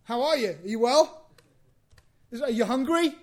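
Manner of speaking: mock caring mother checking on her son; fussing mother. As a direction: gush over the lost son with concern. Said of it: "there's not like".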